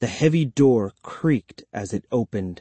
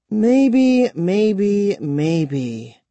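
bitter; 9 semitones higher, much slower than usual. Acted. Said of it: "she repeated bitterly".

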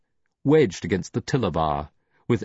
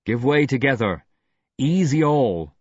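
commanding; 6 semitones higher, 4 dB louder than usual. A narrator's reading. Officer commanding the rowers.

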